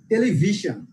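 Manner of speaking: টেলিভিশন with ভি punched, then falling; stress on VI. Shown as a demonstration. Teacher repeating the example, টেলিভিশন stressed on ভি. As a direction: lean on ভি in টেলিভিশন. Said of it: "emphasize on".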